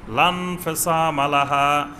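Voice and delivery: slow sung Arabic phrase; chanted verse; Quran recitation. Acted. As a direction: intone it melodically.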